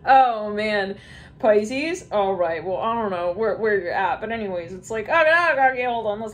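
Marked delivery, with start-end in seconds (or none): 0.0-1.0 high, breathless laughter; laughing fit. Real, not acted. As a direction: crack up completely. Bursting out laughing.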